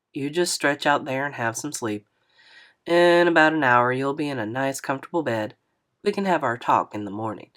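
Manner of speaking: a hint of a gentle older driver; lightly voiced older man. Narrator voices Mister Lewis.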